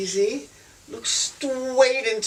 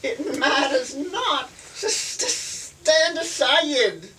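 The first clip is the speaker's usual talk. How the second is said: put-on glamorous old Hollywood star; 3 semitones higher than usual. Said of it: "pretend to be Margaret Gladfly".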